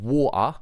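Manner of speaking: water as "wa'er", with a glottal stop; mocked-English "water" with no T; English dropped T. Shown as a demonstration. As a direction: skip the T in water. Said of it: "you mock our accent".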